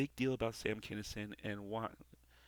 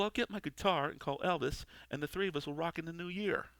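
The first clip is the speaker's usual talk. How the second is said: lightly voiced cynical angel, a bit higher; gruff wisecracking angel; 4 semitones higher, 3 dB louder than usual. Angel needles Al about heaven, lightly voiced wisecracks. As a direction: toss the jokes like a jaded angel. Reads the angel's script lines.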